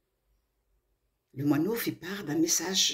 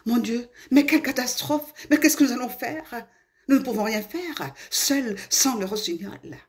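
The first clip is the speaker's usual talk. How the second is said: anxious, raised and louder exclamation; worried; 6 semitones higher, 3 dB louder than usual. Acted. Flowers fretting over the sick nightingale, worried. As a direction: panic a little, pitched up then easing. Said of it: "les fleurs s'inquiétèrent".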